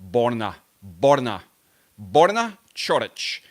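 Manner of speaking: "Borna Chorich" with a rolled R. Shown as a demonstration. Showing the chat how to say the name, with a rolled R. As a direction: roll the R in "Borna". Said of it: "you gotta roll the R's".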